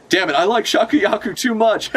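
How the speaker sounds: high, hammed-up lovestruck groan; mock smitten Roger. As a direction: grumble it like a hopelessly smitten pirate.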